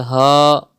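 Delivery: "ha" with a plain light h, not from mid-throat. Shown as a demonstration. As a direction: breathe out "ha" as an ordinary h. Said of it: "not correct".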